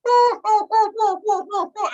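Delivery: mock him right back, gloating. Mocking friend back, laughing.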